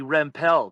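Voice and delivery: "Rempel" with the stress moved to the last syllable; "Rempel" ending like "pell"; mispronounced surname. Retold or imitated. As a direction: say "Rempel" wrongly as rem-PELL. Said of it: "That's Bonnie Rempel, not Rempel".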